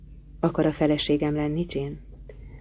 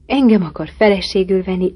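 exclaiming; 3 semitones higher, 6 dB louder than usual. Acted. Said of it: "Kiáltottam fel".

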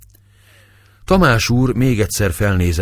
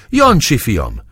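higher, louder frantic call; 6 semitones higher, 5 dB louder, slower than usual. A narrator's reading. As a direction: call for your lost son. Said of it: "kiáltotta".

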